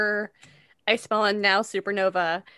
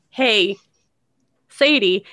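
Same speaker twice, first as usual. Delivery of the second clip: calling out across the house; hollering; 6 dB louder, much slower than usual. Shown as a demonstration. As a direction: holler the name to someone far away. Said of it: "holler across the house".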